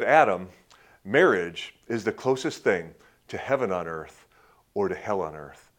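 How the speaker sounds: a hint of an old German pastor; German accent. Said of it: "he had this thick German ac-, accent".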